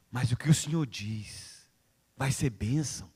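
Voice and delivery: humble prayer. Acted. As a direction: pray it humbly to the Lord.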